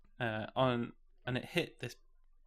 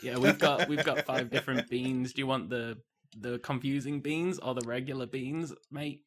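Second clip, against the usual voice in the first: swallowed-something voice. Acted. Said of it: "Why does he sound like he's swallowed something?".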